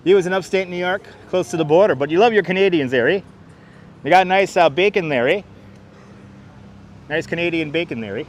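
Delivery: playful Canadian "there, eh" lilt; lightly put-on Canadian accent; mock Canadian accent. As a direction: ham up the Canadian accent a little.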